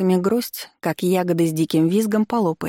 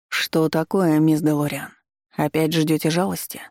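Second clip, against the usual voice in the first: буднично, спокойно; деловито и безразлично; будничным тоном. Acted. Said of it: "будничным тоном проговорил профессор". (будничный тон)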